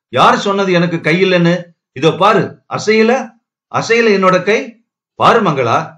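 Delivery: high-pitched agitated protest, mildly acted; frantic disbelief. A narrator's reading. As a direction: climb into desperate, pleading disbelief. Frantic patient showing his unmoving arms. (பதறிப்போன மறுப்பு)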